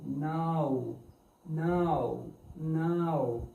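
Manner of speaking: "now" gliding from आ to ऊ; correct pronunciation. Shown as a demonstration. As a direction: model "now" slowly as aa sliding into oo. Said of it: "आ, ऊ".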